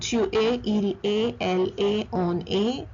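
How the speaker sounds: tu es, il est, elle est, on est all ending in "ay"; same vowel sound. Shown as a demonstration. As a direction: silent S and T in tu es through on est. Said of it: "The same sound".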